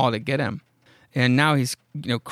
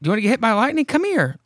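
calling out; 10 semitones higher, 5 dB louder, faster than usual. Retold or imitated. Greg calling horse in the storm.

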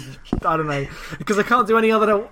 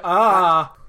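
louder imitated cry of alarm; mock horrified "ah"; 5 dB louder than usual. Co-host imitating own reaction to the film, mock alarm. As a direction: let out a mock "ah" of horror.

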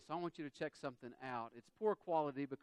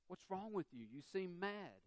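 higher-voiced questioning spouse; puzzled spouse; 4 semitones higher, 3 dB quieter than usual. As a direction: voice a concerned spouse asking, pitched up. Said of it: "your spouse can say".

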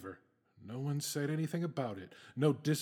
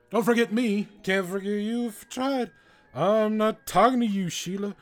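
arguing with myself; 7 semitones higher, 9 dB louder than usual. Acted. Arguing with the brain.

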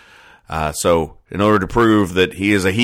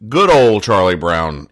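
sarcastic quoting; 3 dB louder than usual. Real, not acted. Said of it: "quote, ... end quote".

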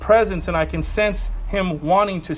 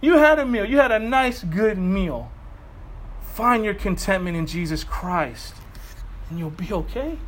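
voice of the Lord. Retold or imitated. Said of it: "the Lord's like".

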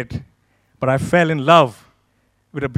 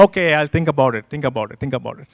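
soft, trailing brush-off; noncommittal brush-off; 4 semitones lower, 3 dB quieter, faster than usual. Retold or imitated. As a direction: put them off quietly, repeating it on autopilot. Putting off the pastor's repeated invitation.

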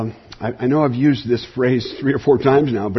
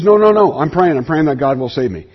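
insistent refusal. Retold or imitated. Bob refusing the boat rescuers, emphatic. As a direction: shout the refusal, then settle. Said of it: "He says".

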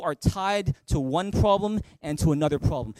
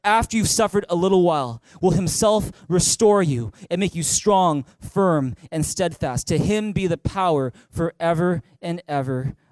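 louder unison scripture reading; big loud reading; 3 dB louder than usual. Real, not acted. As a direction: read it out boldly with the congregation. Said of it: "Read it with me in a big loud voice".

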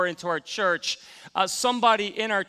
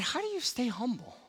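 curious question; 4 semitones higher than usual. Retold or imitated. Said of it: "I said".

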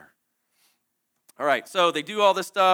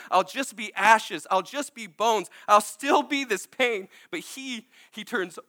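real tears breaking through, slow; slow, choked-up testimony; tearful; 5 semitones higher, slower than usual. Real, not acted. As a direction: emotion welling up mid-sermon. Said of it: "Sorry for the tears".

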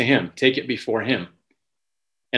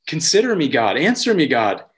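higher, pleading cry to God; David's cry; 4 semitones higher than usual. Retold or imitated. Voicing David crying out to God, pleading. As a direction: plead upward as David would. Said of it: "It's, it's a cry of".

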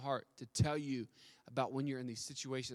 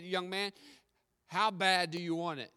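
lightly voiced guru, raised pitch; stern challenge; 4 semitones higher, 5 dB louder than usual. Guru challenging the young man in the ocean, stern challenge. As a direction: press him with a higher, firm question.

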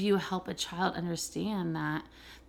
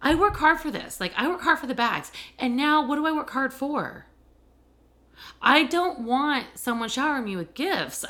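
retold yelling; 4 semitones higher than usual. To her boyfriend over gift bags, a retold indignant yell. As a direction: replay the fight, hitting work and hard. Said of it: "And I actually yelled at him".

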